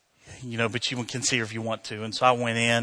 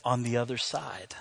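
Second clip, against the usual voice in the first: soft, near-whispered reply; hushed farewell; 5 dB quieter than usual. Retold or imitated. Dying doctor answering her friend's goodbye, in a hush. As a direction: let it out gently, barely voiced.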